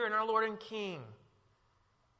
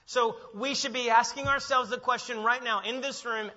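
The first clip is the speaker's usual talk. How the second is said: ordinary talk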